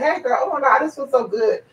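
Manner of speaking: put-on gushing girlfriend chat. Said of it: "we chit-chat".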